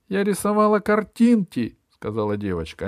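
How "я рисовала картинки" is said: put-on high, small child voice; little girl. A narrator's reading. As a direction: speak like a timid little girl. Little girl's voice. (голосок маленькой девочки)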